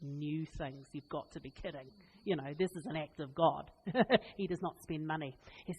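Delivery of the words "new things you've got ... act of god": muttered disbelief. Retold or imitated. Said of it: "I was like".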